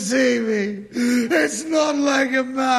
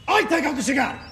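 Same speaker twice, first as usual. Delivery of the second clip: shouted threat; 2 semitones higher, faster than usual. Acted. Trucker loses patience with the driver and shouts. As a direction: shout it, fed up at last.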